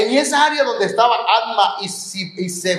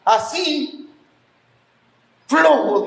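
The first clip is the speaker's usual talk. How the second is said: put-on child's sulky answer; 5 semitones higher, much slower than usual.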